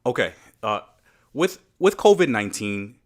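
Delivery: talking after a hookah pull; smoking a hookah. Real, not acted. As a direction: smoke still in the lungs. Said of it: "Let me take a pull of the hookah first".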